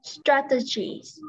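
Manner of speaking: STRATEGIES said slowly; word demonstration. Shown as a demonstration. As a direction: slowly model "Strategies" for a learner. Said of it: "con biết đọc từ này". (đọc mẫu thật chậm)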